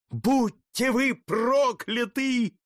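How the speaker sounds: high, slow, drawn-out curse; slow furious curse. Acted. Doomed count curses his executioners, slow and high. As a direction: drag out the curse with fury.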